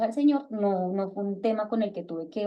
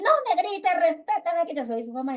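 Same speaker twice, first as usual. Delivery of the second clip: retold scolding; 8 semitones higher than usual. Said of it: "Entonces yo les digo".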